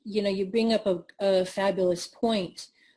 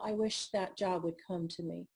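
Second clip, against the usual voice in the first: quiet; 3 semitones lower, 8 dB quieter than usual. Pretend. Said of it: "You can't just say".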